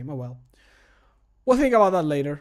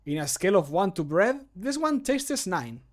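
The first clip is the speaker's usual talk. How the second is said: character voice line; 4 semitones higher than usual. Acted. Streamer retakes the tasting line, verdict pitched much higher. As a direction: leap up on the verdict. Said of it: "recording voice line takes".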